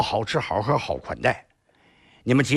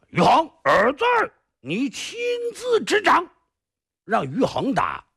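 stern order; 10 semitones higher than usual. Acted. 二侠 orders son to beat.

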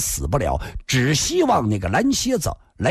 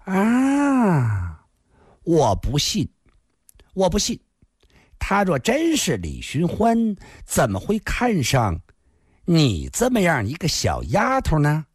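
lightly voiced stunned woman, disbelieving; 2 semitones higher than usual. Fat woman doubting a little maid's claim, lightly incredulous. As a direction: refuse to believe it, slowing in disbelief.

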